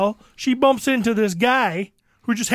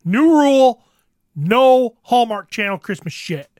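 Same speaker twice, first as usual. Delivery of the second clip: loud laying down the law; stern new rule; 5 dB louder than usual. Retold or imitated. Laying down a house rule, loud and firm. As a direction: announce the rule firmly. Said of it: "I said".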